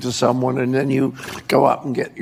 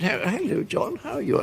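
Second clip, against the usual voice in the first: imitating his mother; 5 semitones higher, 6 dB quieter than usual. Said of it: "she said".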